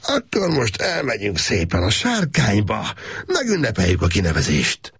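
lightly voiced man, brittle mock celebration; a hint of manic jollity; forced cheer. Gábor urging the girl out to celebrate, forced cheer.

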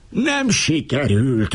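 high, slow, furious cry; raging. A narrator's reading. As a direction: wail it out in fury. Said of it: "őrjöngött az Alabarkosz".

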